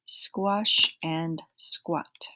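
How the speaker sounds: very slow, drawn-out "Squash and squat"; slow review. Shown as a demonstration. Teacher recapping the ah words for the class, slowly. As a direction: stretch every sound out slowly. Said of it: "an A that sounds like an ah".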